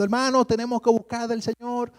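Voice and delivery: preaching old man, lightly mimicked; old preacher. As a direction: lightly voice the elderly preacher's urging. Old preacher voiced in the story.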